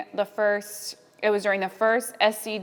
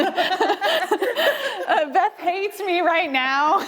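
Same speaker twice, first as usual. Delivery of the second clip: high, slow, laughing through words; amused self-mocking laugh; 11 semitones higher, much slower than usual. Real, not acted. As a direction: giggle it out. Laughing aside about colleague.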